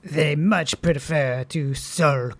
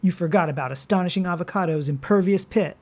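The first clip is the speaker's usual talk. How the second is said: heroic voice; 5 semitones higher, much faster than usual. Acted. Superhero avocado speaks.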